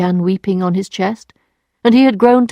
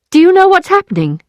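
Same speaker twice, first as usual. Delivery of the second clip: alarmed; 11 semitones higher, 5 dB louder, faster than usual. Acted. Emma confronting Lheureux, alarmed.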